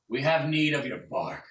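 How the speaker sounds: a big bear pushing forward to speak; bear's demand. Acted. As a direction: bear demanding bark from the tree. GM voices the bear.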